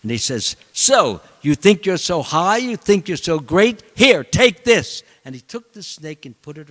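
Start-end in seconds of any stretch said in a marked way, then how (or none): 0.7-5.0 scornful taunt. Retold or imitated. Vengeful king taunts the sage as he drapes the snake, sneering.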